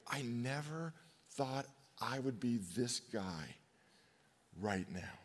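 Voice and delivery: soft, slow broken-down admission; lightly imitating a weeping man, hushed; crying confession. Preacher voicing a weeping addicted man, softly and slowly. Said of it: "He's crying because he's like".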